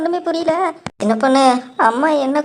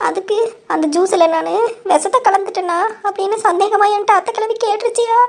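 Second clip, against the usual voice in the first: fake crying; 7 semitones higher than usual. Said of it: "அழுகுற மாதிரி acting போடுறியா".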